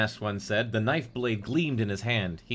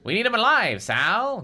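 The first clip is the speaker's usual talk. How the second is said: higher, mounting urgency; acted rising insistence; insistent; 7 semitones higher, 5 dB louder than usual. A narrator's reading. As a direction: press your partner to listen. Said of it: "Garland insisted".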